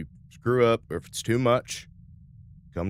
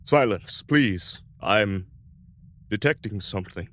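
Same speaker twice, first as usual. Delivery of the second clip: droning yell; 3 dB louder than usual. Acted. Gerngallo silences the crew to listen, droning yell. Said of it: "drone of Gerngallo yell".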